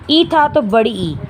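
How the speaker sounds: final "ई" held twice as long as the first; lengthened vowel. Shown as a demonstration. Teacher showing short vowel turning long, stretched final "ई". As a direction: draw out "बड़ी ई" slowly. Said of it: "दो मात्रा का समय".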